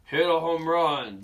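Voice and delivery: loud cheer. Acted. Dinosaur cheering at ball game.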